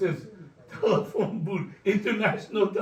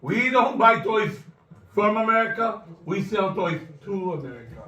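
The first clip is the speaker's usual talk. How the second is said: voice in his head. Retold or imitated. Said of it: "I start hearing all the voices".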